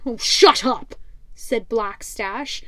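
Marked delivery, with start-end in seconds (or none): 0.0-0.9 louder, gruff pirate captain scoffing. Acted. Pirate captain mocks the rival ship, loud and scornful.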